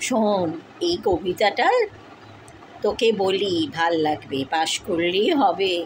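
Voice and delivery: low, calming reassurance; soothing. Real, not acted. Parent reassures crying child that just passing is enough, soothing.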